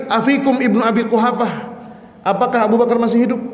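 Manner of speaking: high-pitched calling out, not full volume; mock a commander yelling a question; imitated shout. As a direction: call out high, like an enemy across a battlefield. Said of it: "Ditanya lagi".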